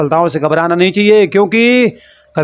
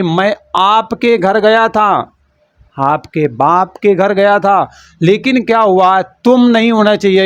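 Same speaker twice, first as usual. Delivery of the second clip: slow mock quote; slower than usual. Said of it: "यार कह रहा है कि".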